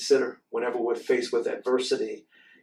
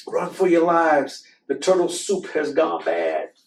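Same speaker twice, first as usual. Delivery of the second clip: higher, hammed-up alarm; mock panic; 6 semitones higher, 5 dB louder than usual. Animals fleeing the bad soup, mock panic. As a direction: sound the alarm like a panicked cook.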